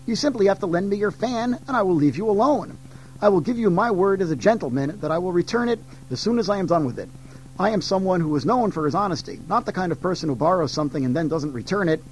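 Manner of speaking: a hint of a sly trickster, quick and coaxing; lightly voiced monkey king, fast and wheedling; lightly voiced cheeky Monkey. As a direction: sweet-talk her fast like a smooth-tongued monkey.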